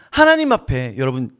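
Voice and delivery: ordinary delivery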